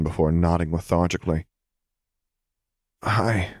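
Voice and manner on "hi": put-on sleepy child. A narrator's reading. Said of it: "he greeted back".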